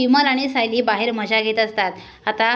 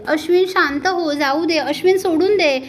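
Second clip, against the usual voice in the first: higher, deliberately sugary pleading to the husband; a wife faking tenderness to stir the brothers apart, higher and sugary; fake sweet coaxing; 5 semitones higher than usual. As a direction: put on a sweet coaxing voice to win him over. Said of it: "असं मुद्दाम लाडात येऊन".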